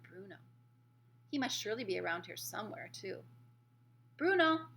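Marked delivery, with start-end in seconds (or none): 4.2-4.7 high, loud searching call. A narrator's reading. Mouse boy looking for his friend Bruno, calling out. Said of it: "I called out".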